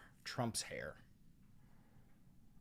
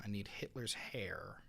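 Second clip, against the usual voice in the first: whispering; 2 semitones lower, 6 dB quieter than usual. Real, not acted. Muttering to self while editing.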